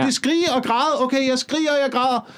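mock someone dutifully joining the hysteria; fan imitation. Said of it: "så kigger de lige på".

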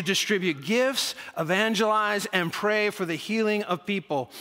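put-on reading aloud in a light Russian accent. Pastor reading out the Christmas outreach report, light Russian accent. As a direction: lean into a mild Russian accent. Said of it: "I start talking in a Russian accent".

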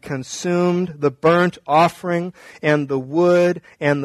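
measured, solemn Bible reading; scripture reading. A narrator's reading. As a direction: read scripture aloud with deliberate phrasing. Reads the Bible passage aloud.

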